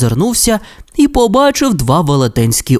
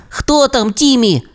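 тремтячим голосом; 11 semitones higher than usual. Acted. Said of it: "тремтячим голосом запитав Расмус".

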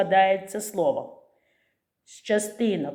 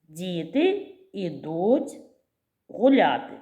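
each word apart, slowly; 2 semitones lower, slower than usual. Shown as a demonstration. Teacher dictating word by word to the class. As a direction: pause between words for the scheme. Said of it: "запишемо за допомогою схеми".

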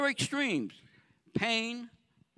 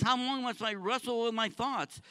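anguished plea; 5 semitones higher than usual. Acted. David voiced pleading with God, raised anguished cry. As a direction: ask God in pain, raised voice. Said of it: "he says".

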